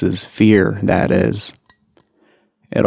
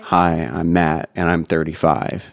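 creaky vocal fry on the words; 2 semitones lower than usual. Shown as a demonstration. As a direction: let the voice crackle into vocal fry. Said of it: "That's called vocal fry".

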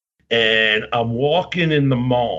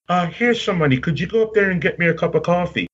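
quick, higher imitation of the older star; Lord Alfred Hayes; 6 semitones higher, faster than usual. Wrestler sending a fan for coffee, imitated in a higher voice. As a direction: mimic his higher voice making a request. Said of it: "and he's like".

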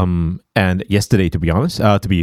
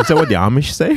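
laughing; 7 semitones higher than usual. Real, not acted. Joking back, laughing.

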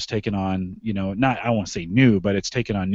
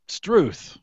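"Struth" as a high exclamation, then falling; 7 semitones higher than usual. Shown as a demonstration. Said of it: "you would say with an exclamation".

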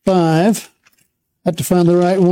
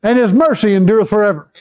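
call and response. Shown as a demonstration. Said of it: "Say it again".

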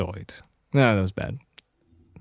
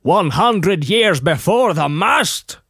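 higher and louder, slow rising echo of "One hundred years before the mast?"; incredulous echo; 4 semitones higher, 4 dB louder, slower than usual. Acted. Throwing the Davy Jones line back at his friend, slow and incredulous. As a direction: repeat it back like it's obvious.

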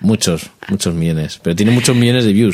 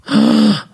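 gasp; 3 dB louder than usual. Pretend. Mock shock at fire drones.

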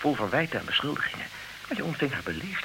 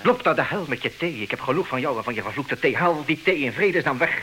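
irritated outburst. Acted. Furious at servant's tea.

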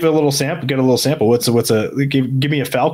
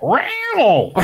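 metal-band growl. Acted. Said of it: "I wanna hear your metal-band noise".

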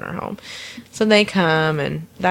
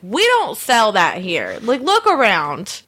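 irritated; slower than usual. Retold or imitated. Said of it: "got really irritated and was like".

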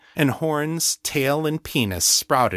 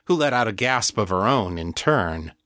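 ordinary delivery

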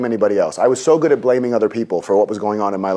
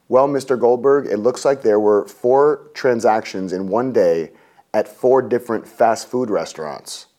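calm nice clerk; slower than usual. Retold or imitated. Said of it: "trying to get very nice, trying to calm me down".

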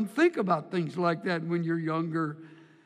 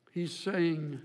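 ordinary delivery

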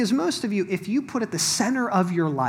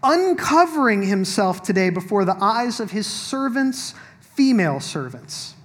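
measured Bible reading voice, a little higher and louder; scripture reading; 5 semitones higher, 6 dB louder than usual. Acted. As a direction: proclaim the passage to the room. Continues Michal's words from the verse.

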